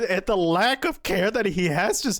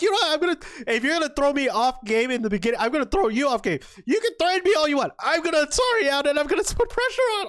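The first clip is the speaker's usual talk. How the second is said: mock defiance; 4 semitones higher, faster than usual. Voices player's retaliation.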